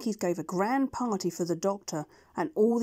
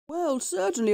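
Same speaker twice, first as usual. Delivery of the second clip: flustered doctor; 9 semitones higher, 3 dB louder than usual. Acted. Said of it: "said the doctor".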